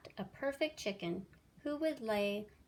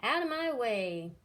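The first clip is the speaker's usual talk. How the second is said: pushy; 3 semitones higher, 5 dB louder than usual. Acted. Goose pushing past.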